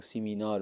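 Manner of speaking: سیمینار with Persian long ee vowels; Persian pronunciation of seminar. Retold or imitated. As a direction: mimic learners saying سیمینار as "see-mee-nar".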